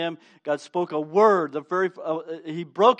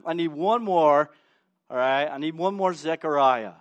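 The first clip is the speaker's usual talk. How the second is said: normal talking voice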